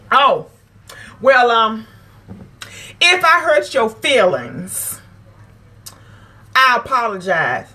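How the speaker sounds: a half-hearted mock apology, slow on the if; fake apology. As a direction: mimic a grudging sorry with a slow if. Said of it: "It is no if".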